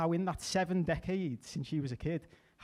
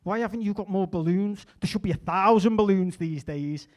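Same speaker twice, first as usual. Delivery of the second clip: loud, indignant ranting at the parents; hammed-up woke fury; mock-offended rant, getting louder; mock outrage; 4 semitones higher, 7 dB louder than usual. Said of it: "I go to them".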